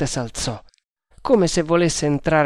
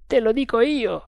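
a higher voiced guard, confident; overheard guard; 9 semitones higher than usual. A narrator's reading. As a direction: play the first guard, sure of himself. Guard talking behind fence. (guardia sicura di sé, voce più alta)

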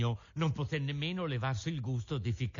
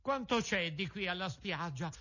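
anxious; 6 semitones higher than usual. A narrator's reading. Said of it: "con ansia affannosa".

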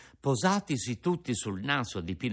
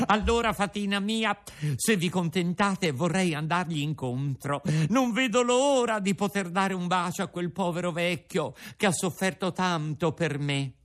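eager puppet; 7 semitones higher than usual. A narrator's reading. Puppet eager to meet father.

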